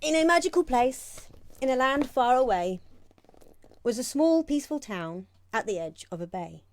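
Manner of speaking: lively rhyming read-aloud; storybook reading. Acted. Reads picture book aloud.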